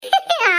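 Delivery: short high giggle; a quick high-pitched giggle; high laugh. Real, not acted. Women sharing food, a quick high giggle.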